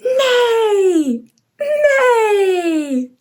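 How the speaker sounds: high whinnying neigh; whinny like a horse. Shown as a demonstration. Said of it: "let's neigh again together".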